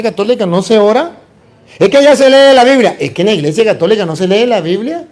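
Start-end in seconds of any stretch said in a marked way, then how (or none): 1.8-3.0 a hint of a higher, whiny objector; mock objector. Priest imitating a Catholic who left, mildly mocking. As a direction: lightly voice someone making excuses. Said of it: "¿Qué voy a hacer en la secta protestante?".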